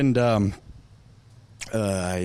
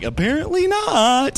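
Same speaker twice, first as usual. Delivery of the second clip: high, slow deadpan reply; dry God voice; 9 semitones higher, 3 dB louder than usual. Retold or imitated. Pastor voicing God answering his complaint, lightly voiced deadpan. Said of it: "And God's like".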